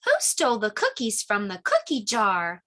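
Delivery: sing-song storybook read; reading to children. Acted. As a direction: read it like a picture book for little ones. Reads picture book aloud.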